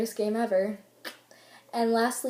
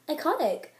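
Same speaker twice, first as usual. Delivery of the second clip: put-on higher-pitched Valley Girl exclamation; 5 semitones higher than usual. Cheering someone's A on their test, Valley Girl. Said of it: "say it in a Valley Girl voice".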